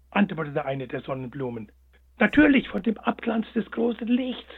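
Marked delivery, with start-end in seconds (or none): 2.2-4.5 hare replying. A narrator's reading. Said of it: "entgegnete der kleine Schlitzohr".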